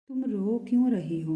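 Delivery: anguished why are you crying; pleading question. Acted. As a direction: urge her to say why she cries. Asks crying lover why.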